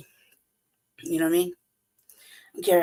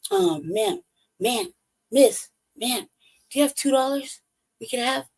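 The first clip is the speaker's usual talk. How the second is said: put-on higher, hesitant little-kid asking voice; begging kids; 6 semitones higher than usual. Kids begging the driver for two dollars, higher and timid. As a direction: plead like a shy kid asking for change. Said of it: "And they're like".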